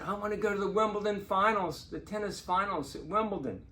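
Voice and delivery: high-pitched retold excitement; eager wish. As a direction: blurt out the wish, pitched well up. Retelling his one big wish.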